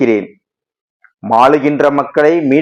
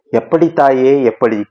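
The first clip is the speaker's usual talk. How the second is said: anxious. Acted. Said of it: "பக்தன் பதறினான் மறுபடியும்".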